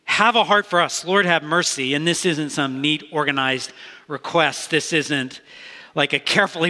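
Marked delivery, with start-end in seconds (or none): 0.0-1.9 louder, higher imitated plea; mock cry for mercy, raised a little. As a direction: cry out as if begging to be heard. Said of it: "they're crying out".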